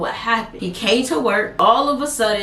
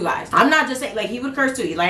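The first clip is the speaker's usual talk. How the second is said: normal talking voice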